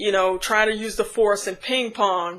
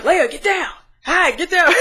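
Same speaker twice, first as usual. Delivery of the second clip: retold cry of alarm, pitched up; mock scream; 8 semitones higher than usual. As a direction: imitate yelling at someone to take cover. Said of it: "He's screaming at her".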